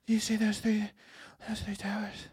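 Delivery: drops to a near whisper; conspiratorial hush. Acted. Trump letting the host in on a secret, hushed.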